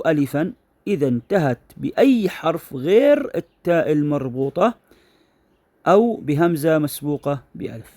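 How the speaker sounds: deliberate classroom dictation, stretching key words; dictating a rule. Shown as a demonstration. Reads the rule out slowly.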